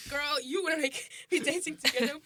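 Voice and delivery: high, laughing protest. Retold or imitated. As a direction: laugh through the words. Retelling her own laughing reply.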